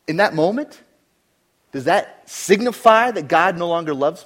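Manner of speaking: from steady to loud preaching; building sermon. Acted. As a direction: climb to a forceful peak. Preacher presses point.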